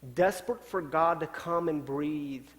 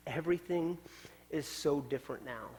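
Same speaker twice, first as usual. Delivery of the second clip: a quiet, awed confession; breathy hush of a man still shaken; hushed whisper; 7 dB quieter than usual. Retold or imitated. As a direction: whisper the first word, then let the rest stay soft. Paul sharing a life change.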